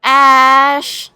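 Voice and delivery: loud, drawn-out call to a friend. Acted. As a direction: holler the name, stretching it out. Calls friend for help.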